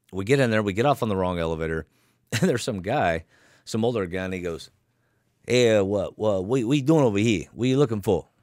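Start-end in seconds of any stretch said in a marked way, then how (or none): 5.4-8.2 put-on heavy Chicago accent, laid on thick. Retelling what an older guy said after they got off the wrong elevator, thick Chicago accent. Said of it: "he's got this real thick Chicago accent".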